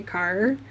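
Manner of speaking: put-on "car" drawn out like Trailer Park Boys; Trailer Park Boys pronunciation. Streamer showing viewers how the show says it, drawn-out "car". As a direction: stretch the vowel in "car". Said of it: "when I watched Trailer Park Boys".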